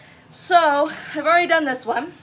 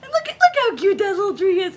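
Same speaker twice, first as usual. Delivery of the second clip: higher, louder cooing over something cute; 8 semitones higher, 5 dB louder than usual. Real, not acted. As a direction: gush over the tiny tree.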